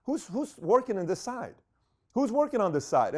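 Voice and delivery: retold shout for service; calling out. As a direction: call out for the waiter, mock yell. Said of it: "I scream out".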